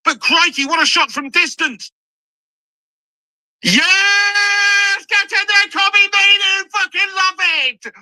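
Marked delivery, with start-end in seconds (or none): 3.6-7.9 real joy at a second goal; goal celebration. Real, not acted. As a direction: roar for the scorer.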